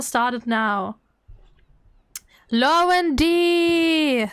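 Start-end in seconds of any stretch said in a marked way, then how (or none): 2.5-4.3 drawn-out, slow call to a winner. Real, not acted. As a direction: stretch it out like a giveaway host. Calling out a giveaway winner.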